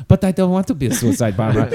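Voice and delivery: lightly voiced whiny kid; a hint of a reluctant child. Kid voice in comic bit.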